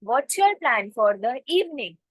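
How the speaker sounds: very slow, clear English demo; slow model sentence. Shown as a demonstration. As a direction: spell it out slowly for learners. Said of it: "तो आप उनको कैसे पूछोगे". (बहुत धीमे, साफ़ अंग्रेज़ी में)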